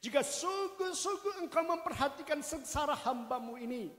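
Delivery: loud, earnest vow, pleading to God; Hannah's loud, tearful vow to God; fervent prayer. Retold or imitated. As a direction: pour out the vow at full voice, begging. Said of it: "bernazarlah ia katanya".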